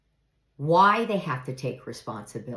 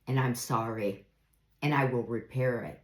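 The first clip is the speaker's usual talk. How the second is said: soft sincere apology; 5 semitones lower, 3 dB quieter than usual. Shown as a demonstration. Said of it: "I think that one's a good one".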